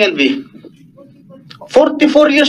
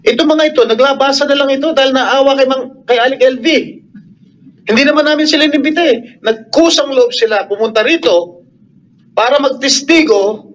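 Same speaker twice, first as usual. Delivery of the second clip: raised voice; 2 semitones higher than usual. Real, not acted. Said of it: "raising my voice".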